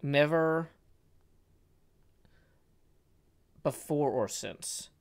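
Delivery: Never set apart, then a slow before or since; stress on Never. Shown as a demonstration. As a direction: pause after Never, slow the rest. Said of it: "repeated first word".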